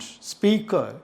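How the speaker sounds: "speaker" ending in an open "uh"; silent final R. Shown as a demonstration. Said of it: "The last r sound is not using".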